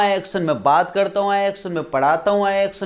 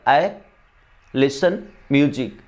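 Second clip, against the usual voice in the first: slow model; 3 semitones lower, much slower than usual. Shown as a demonstration. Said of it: "teacher models the sentence".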